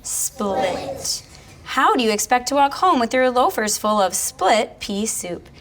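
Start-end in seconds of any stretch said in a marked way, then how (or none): 1.6-5.5 higher storybook question to George; reading Martha's question to George with a lift; Martha asks George. Acted. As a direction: ask George, hamming it up a little. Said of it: "she asked George".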